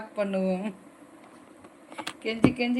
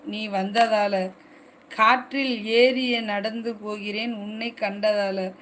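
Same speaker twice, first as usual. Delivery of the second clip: measured recital with drawn-out refrains; poem recital. Acted. Streamer reciting a love poem to live viewers, poem recital. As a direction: recite the verse evenly, easing down on each refrain. கவிதை நல்லா இருக்கு.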